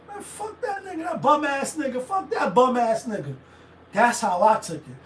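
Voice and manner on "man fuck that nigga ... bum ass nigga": casual dismissal. Retold or imitated. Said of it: "So I'm just like".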